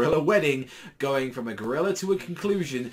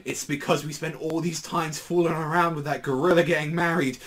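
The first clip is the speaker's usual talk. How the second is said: a bit higher, louder fretting; panicked Katsura; 4 semitones higher, 3 dB louder than usual. Retold or imitated. Katsura warning Gintoki about pages, lightly raised panic. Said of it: "Katsu is just like".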